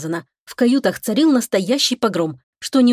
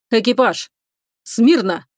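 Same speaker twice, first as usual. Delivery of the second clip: firm parade-ground order; commanding voice; 2 semitones higher, slower than usual. A narrator's reading. Captain calls the crew to attention, firm commanding voice. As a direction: bark it like an officer on parade. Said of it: "твёрдым командирским голосом".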